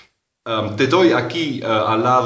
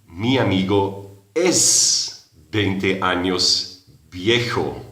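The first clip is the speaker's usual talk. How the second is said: Mi amigo es veinte años viejo drawn out slowly; slow literal version; much slower than usual. Shown as a demonstration. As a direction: spell out the word-for-word English pattern. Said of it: "en inglés tengo que decir". (despacio, traducción literal)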